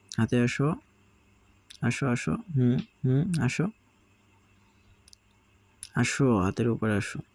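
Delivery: cooing at a sulky parrot chick; coaxing pet talk. Real, not acted. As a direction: sweet-talk the sulking bird onto your hand. Coaxing pet bird Piku.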